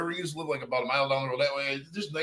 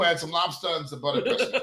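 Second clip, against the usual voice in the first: put-on New England accent; 3 semitones higher than usual. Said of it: "Was that your New England accent?".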